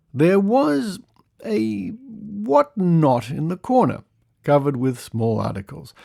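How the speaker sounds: measured, emphatic storytelling read; lively, deliberate narration; article read-aloud. Acted. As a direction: read out a curious old news report. Reads an old article aloud.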